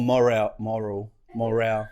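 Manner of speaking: "moral" stressed on the first syllable, MOR-al; trial pronunciation. Shown as a demonstration. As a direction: test out "moral" repeatedly as MOR-al. Trying out a misheard word.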